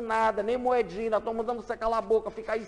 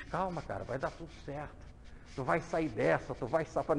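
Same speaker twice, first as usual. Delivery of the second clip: consolo suave; 4 semitones lower than usual. Acted. Consolando um doente.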